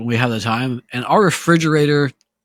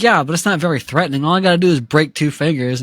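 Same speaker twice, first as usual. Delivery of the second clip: cocky dismissal; 3 semitones higher, faster than usual. Retold or imitated. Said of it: "He's like".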